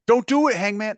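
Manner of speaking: high mock pleading voice; mock plea. Callis begging Hangman not to hit him, high mock plea. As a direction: beg him in a high squeaky voice. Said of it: "if you heard him being like".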